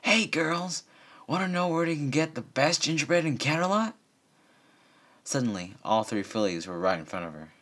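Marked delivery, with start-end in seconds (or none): 0.0-3.9 high, loud friendly call. Acted. Lyra calling out to the fillies, high and loud. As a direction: call the fillies over, raised and bright. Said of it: "and called out".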